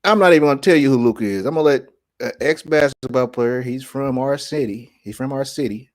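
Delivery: high, loud and fast retort; excited retort. Retold or imitated. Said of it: "And then I was like".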